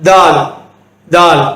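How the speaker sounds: தால் with a firm, hard 'd'; தால் as an emphatic 'daal'; pressed firm d. Shown as a demonstration. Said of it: "கொஞ்சம் அழுத்தமா உச்சரிக்கணும்".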